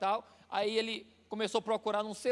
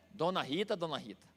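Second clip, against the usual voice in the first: playful tender teasing; 4 semitones lower, 4 dB quieter than usual. Retold or imitated. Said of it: "Às vezes eu brinco".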